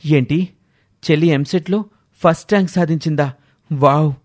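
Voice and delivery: put-on innocent wow; feigned surprise. Brother faking ignorance of sister's rank to parents, mock surprise. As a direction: act as if he knew nothing, mildly amazed. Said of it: "ఏమీ ఎరగనట్లుగా అంటాడు".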